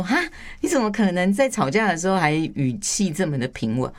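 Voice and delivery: mock-astonished questioning; acted disbelief. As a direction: imitate a friend who can't believe it.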